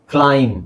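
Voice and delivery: ಕ್ಲೈಮ್ ending on a held m; silent b. Shown as a demonstration. Teacher models climb, b left silent. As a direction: say ಕ್ಲೈಮ್ with no b after the m. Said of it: "ಬಿ ಅವಶ್ಯಕತೆ ಇಲ್ಲ".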